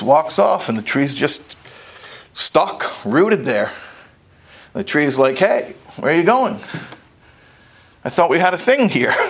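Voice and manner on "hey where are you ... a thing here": hurt tree. Acted. Abandoned tree calls after bear.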